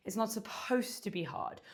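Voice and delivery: whispered aside, no voice at all. Real, not acted. Instructor whispers reassurance to the class that it's easy. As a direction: breathe the words out as a secret.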